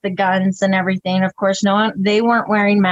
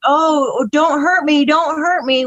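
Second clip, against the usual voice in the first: mock whimpering heckler; 5 semitones higher than usual. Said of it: "saying things like".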